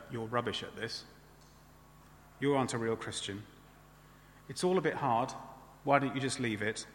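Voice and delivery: soft, low insinuating aside; devil's whisper. Acted. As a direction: softly plant doubt, as the devil would, without truly whispering. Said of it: "isn't he, to whisper".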